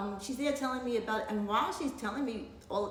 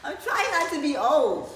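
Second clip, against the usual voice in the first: laughing; 6 semitones higher, 10 dB louder than usual. Real, not acted. Joking about sitting tall on camera.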